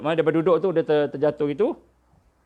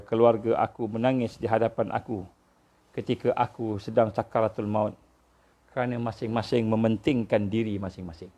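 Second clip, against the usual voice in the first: retold tearful dying man; 5 semitones lower than usual. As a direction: lightly imitate a weeping man's low voice. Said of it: "dia menangis, menangis teresak-esak". (tiruan ringan lelaki menangis, rendah dan perlahan)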